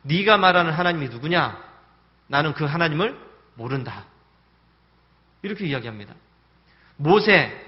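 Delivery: Pharaoh snapping back at Moses; a sneering king's angry reply. Retold or imitated. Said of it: "화를 내면서 이야기합니다".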